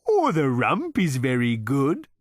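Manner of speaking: high, slow cow voice, murmured; murmuring cow. A narrator's reading. Cow praising its rump to Zaphod, in a high, slow murmur. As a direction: savour the praise of its own rump. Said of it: "murmured the animal".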